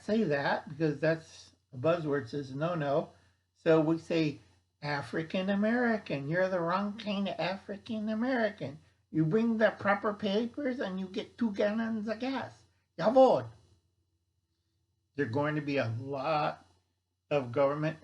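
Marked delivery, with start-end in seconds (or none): 4.8-13.5 bad German accent. Official demanding ID for gas rations, in a bad German accent. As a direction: bark it like a cartoon German bureaucrat. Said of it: "a really bad German impression".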